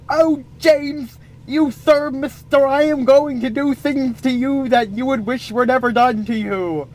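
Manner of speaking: a prim lady sweetly promising revenge; fancy girl threat. Acted. Abby threatens James, fancy girl.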